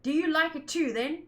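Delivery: put-on a light British accent, then rising. Voicing a character asking about the bell, in a light British accent. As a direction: ask it with a touch of British. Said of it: "did I just do a Brit".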